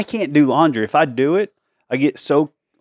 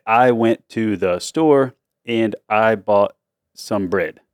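slow inner voice; 3 semitones lower, much slower than usual. Retold or imitated. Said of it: "so I'd had to say".

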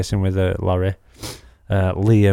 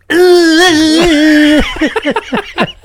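laughing; 8 dB louder than usual. Real, not acted. Laughing through the story.

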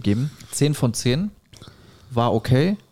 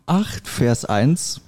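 solemn reading breaking into giggles; 2 semitones higher, slower than usual. Real, not acted. Solemn Bible quote, cracking up.

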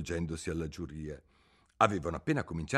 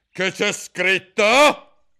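higher, loud, slow; queen demanding to know; queen's demand; 13 semitones higher, 15 dB louder, much slower than usual. A narrator's reading. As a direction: demand the paper. Queen asks.

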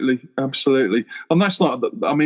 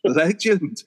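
slow awed chorus; 5 semitones higher, much slower than usual. Retold or imitated. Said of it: "everybody's like".

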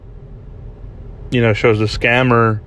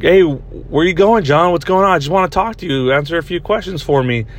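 mock taunting hacker; 6 semitones higher than usual. Hacker taunting the scared scammer over the mic, mock sweet.

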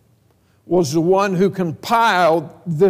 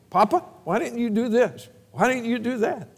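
higher, softer imitation of scolding grandkids; mildly nagging toddlers; 5 semitones higher, 4 dB quieter than usual. Toddlers getting on their Papa, mild mock nagging in a higher voice. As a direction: lightly mimic little ones getting on Grandpa. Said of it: "they love getting on me".

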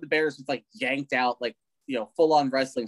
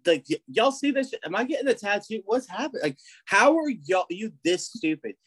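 mock dumb bro voice, pitched up; lightly hammed-up swaggering bro; cocky warrior; 6 semitones higher than usual. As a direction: play the boastful idiot showing off his face. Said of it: "sick Mohawk is like".

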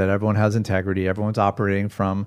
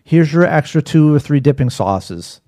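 higher, louder sarcastic mock politeness; sarcastic mock service; 4 semitones higher, 3 dB louder than usual. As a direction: play the fake-gracious server to a cheapskate. Mock-serving a cheap rich customer.

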